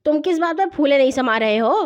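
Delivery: put-on a mild older-brother interrogation; stern questioning. (سخت لہجے میں بازپرس)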